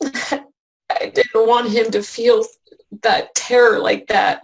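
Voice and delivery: slow, tearful half-laugh; choking up as she says it; crying through words. Real, not acted. Mother worrying about her frightened son, slow and tearful.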